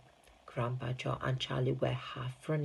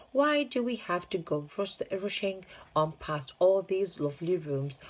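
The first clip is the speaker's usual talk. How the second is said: put-on demanding child; 5 semitones higher than usual. Veruca whining to Wonka.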